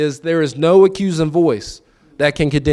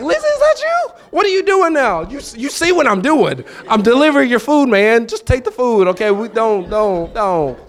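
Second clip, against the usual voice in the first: excited recognition; 9 semitones higher than usual. Retold or imitated. Customer recognizing delivery driver.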